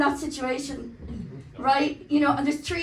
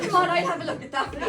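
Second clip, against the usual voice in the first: mock lecherous lad; faster than usual. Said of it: "they're like".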